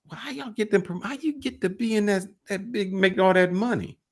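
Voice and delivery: high-pitched imitated asking; retold eager question. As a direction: ask it high up, as if to the boss.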